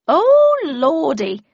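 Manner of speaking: high, loud burst of alarm; startled exclamation. A narrator's reading. Mum hears mammoth trumpeting, cries out in alarm. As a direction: Mum cries out as the roar shakes the house. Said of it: "she exclaimed".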